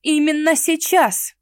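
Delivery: high, loud, slowed insistent retort; heated objection. A narrator's reading. Mara hotly contradicts Henrich, insisting loudly. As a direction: fire back with passion. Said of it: "горячо возразила я".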